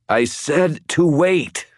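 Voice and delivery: strained and winded; wheezing. A narrator's reading. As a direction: wheeze it out slowly with effort. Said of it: "I wheezed".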